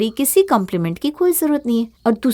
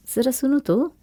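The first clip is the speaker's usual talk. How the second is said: hushed curiosity; 2 semitones higher, 5 dB quieter than usual. Acted. Bahu quietly eavesdrops on in-laws, hushed. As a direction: lean in to listen.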